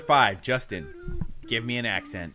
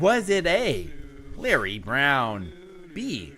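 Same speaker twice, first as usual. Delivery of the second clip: lower, slow, flat robot reading of options; American robot accent; 3 semitones lower, slower than usual. Pretend. Host lists the options in a flat robot voice. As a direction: keep the stiff robot voice. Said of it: "American robot accent".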